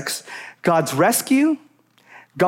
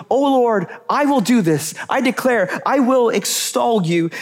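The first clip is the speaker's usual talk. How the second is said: reverent; 2 semitones higher than usual. Shown as a demonstration. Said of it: "you can hear the reverence in his voice".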